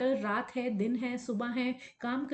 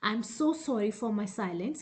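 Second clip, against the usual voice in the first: slow, drawn-out apology; measured, word-by-word message; channelled apology; much slower than usual. Acted. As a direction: apologise slowly as the absent lover. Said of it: "तो कह रहे हैं".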